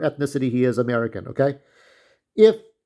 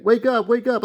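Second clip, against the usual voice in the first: mock wake-up call; 7 semitones higher than usual. People waking him in the bar.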